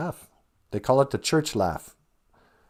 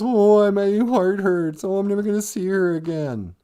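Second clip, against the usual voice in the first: mock self-pity; 7 semitones higher than usual. Mocking self-pitying mourner.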